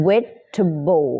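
"vegetable" in three clear syllables, no "jet"; three-syllable pronunciation. Shown as a demonstration. Teacher counting syllables for learners, three-syllable pronunciation. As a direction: model "vegetable" as three beats. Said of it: "สามพยางค์นะ".

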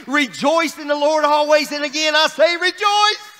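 ringing, sustained proclamation; joyful scripture declaration, held high; rejoicing. Real, not acted. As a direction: read it out triumphantly to the church. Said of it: "I'm gonna read it again".

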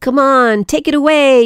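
an eager high cry, short of shouting; mild narrated yell. A narrator's reading. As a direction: read it as a small storybook character calling out. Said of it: "yelled Little Cat A".

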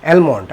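অ্যালমন্ড as "EL-mond", l sounded; common mispronunciation. Shown as a demonstration. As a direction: pronounce a clear l in অ্যালমন্ড. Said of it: "কী উচ্চারণ করে থাকি".

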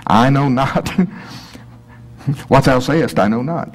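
Yoda-like denial. Pretend. Preacher mimicking Peter's denial, laughing Yoda-like. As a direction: play it like a half-joking Yoda. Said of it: "It sounds almost like Yoda".

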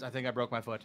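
low, soft guilty confession; sheepish son. Retold or imitated. Son quietly telling dad he broke his foot. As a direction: admit it quietly like a caught kid.

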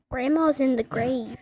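blurted out loudly; deadpan loud reveal; loud announcement. Acted. Shocking autocorrect text read.

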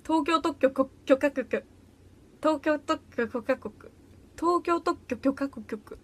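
slow, stumbling tongue-twister attempts; laboured tries at a tongue twister; struggling tongue twister. Shown as a demonstration. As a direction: pick carefully through a hard tongue twister. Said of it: "無理だ。".

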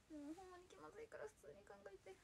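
whispering shyly to the chat; embarrassed whisper. Real, not acted. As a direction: hide the embarrassment under your breath.

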